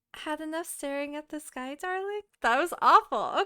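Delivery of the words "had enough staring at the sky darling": sweet, loving, pitched-up tone. Reading the wife's line aloud in a story, sweet yet soft tone. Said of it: "wife's sweet yet soft tone".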